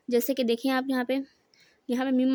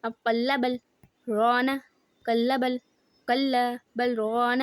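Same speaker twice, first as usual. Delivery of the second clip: slow, drawn-out recitation of قلب الران with a stop after قلب; slow Quran recitation; much slower than usual. Shown as a demonstration. Teacher slowly recites the Quran example. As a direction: stretch قلب and pause before الران. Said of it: "پارہ number twenty nine".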